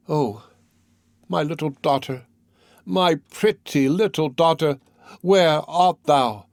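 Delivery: a mother's lament, slow at the end, rising on my pretty little daughter; grieving sob. Acted. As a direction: call out to the lost child, breaking. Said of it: "burst out sobbing as though her heart were broken".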